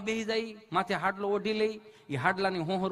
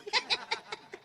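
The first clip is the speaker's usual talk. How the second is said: high giggle; 13 semitones higher, 6 dB quieter than usual. Real, not acted. High laugh.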